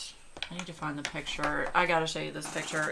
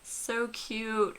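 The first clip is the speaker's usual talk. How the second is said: doting cute-talk; 10 semitones higher than usual. Real, not acted. Vlogger cooing to viewers over the dog photo, high doting voice. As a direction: coo over the puppy on your lap.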